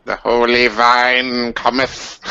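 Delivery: mock solemn. Mock-solemn proclamation about the vine.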